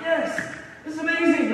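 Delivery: excited. Retold or imitated. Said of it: "It's like".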